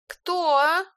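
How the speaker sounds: high, nasal sleepy woman calling out; nasal female voice. A narrator's reading. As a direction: call out nasally from the bedroom. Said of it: "гнусавый женский голосок". (гнусавый женский голосок)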